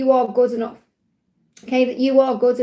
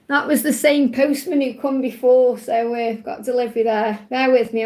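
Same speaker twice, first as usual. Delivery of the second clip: out of breath. Real, not acted. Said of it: "I'm out of breath now".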